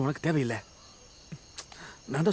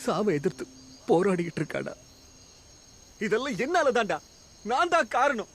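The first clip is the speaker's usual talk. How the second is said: anguished confession; 5 semitones higher than usual. Acted. Confessing sister dying because of him.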